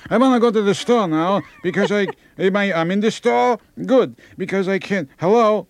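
put-on high, doddering old Jewish voice; old Jewish accent. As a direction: play a confused old person with Jewish accent. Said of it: "they have a Jewish accent".

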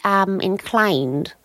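slow, lightly voiced queenly drawl; royal HRH voice. Royal character muses on web pages, slow queenly voice. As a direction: speak as a mild plummy royal. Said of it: "the royal character that I do".

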